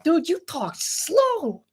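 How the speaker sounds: mock high-pitched urging, slow then rising; hammed-up high voice telling partner to speed up; impatient retort. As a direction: squeak it like an exasperated co-caster. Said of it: "I'm like".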